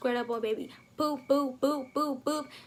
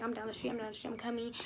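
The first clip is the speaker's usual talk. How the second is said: grandpa's whisper; 6 dB quieter, faster than usual. Retold or imitated. Grandpa answers on the phone.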